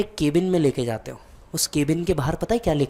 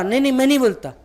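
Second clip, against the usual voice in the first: protest; 8 semitones higher, 5 dB louder, faster than usual. Retold or imitated. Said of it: "पापा".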